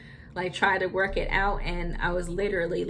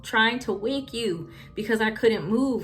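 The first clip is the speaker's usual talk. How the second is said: laughing insistence; 4 semitones higher than usual. Retold or imitated. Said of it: "But I was like".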